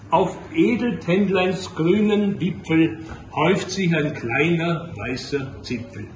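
measured, solemn verse reading with pauses; unhurried lines, falling at the close; poem recitation. Acted. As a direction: recite it like a contemplative Advent poem. Recites a Loriot Advent poem.

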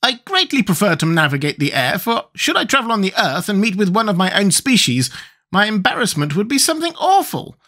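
very high squeaky creature; high-pitched squeaky character; Gump's squeaky voice. A narrator's reading. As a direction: squeak it out, far above your own voice. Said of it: "answered the Gump".

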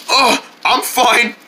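winded, slow and panting; out of breath. Acted. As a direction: gasp it out after heavy lifting. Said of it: "I'm just out of breath".

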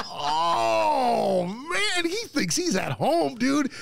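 high, crying-laugh exclamation; laughing disbelief. Retold or imitated. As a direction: squeal it through laughter.

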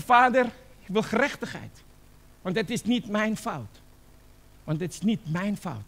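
demanding prayer. Acted. Acted prayer demanding justice. (eisend gebed, nagespeeld)

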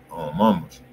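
usual speaking voice

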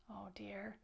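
worried whisper; whispered oh dear. A narrator's reading. Teacher reading to kids, whispering worry. Story suspense for children.

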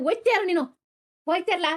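high, heated shout to get out; father yelling at his son to leave; furious dismissal. Acted. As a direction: drive him out of the house.

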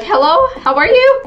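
lightly voiced staircase lurker; oddly cheery hello from an imagined intruder; creepy night visitor. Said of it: "Imagine somebody coming from your staircases".

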